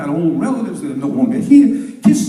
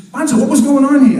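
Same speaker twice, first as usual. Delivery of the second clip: raised, higher voice demanding answers; loud questioning; 7 semitones higher, 8 dB louder than usual. Acted. Zoo guy questioning the chimp, loud and higher. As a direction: call out the question loudly.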